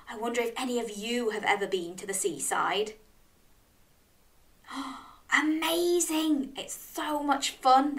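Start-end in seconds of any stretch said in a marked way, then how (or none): 4.7-8.0 excited. Real, not acted. Tells children seaside is amazing.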